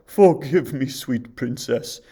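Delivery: loud, anguished plea; remorseful huntsman; tearful huntsman. A narrator's reading. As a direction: beg her forgiveness in tears. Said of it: "he sobbed".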